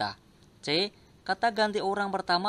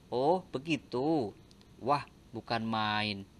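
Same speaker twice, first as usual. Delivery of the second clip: slow, drawn-out "Oh" and "Wah", read lower; lightly acted surprised example sentences; acted interjections; 6 semitones lower, slower than usual. Shown as a demonstration. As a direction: play up the exclamations as an example. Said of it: "memisahkan kata seru seperti".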